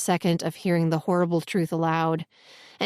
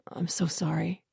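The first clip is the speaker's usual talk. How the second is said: whispered apology; 7 dB quieter than usual. Acted. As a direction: breathe the apology without voice. Old man's hushed apology.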